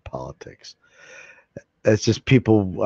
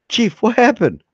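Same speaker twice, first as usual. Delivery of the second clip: much higher, bright cartoon doctor voice; 13 semitones higher, 5 dB louder than usual. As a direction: play the cheery doctor, pitched up high. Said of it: "I'll even use my acting voice".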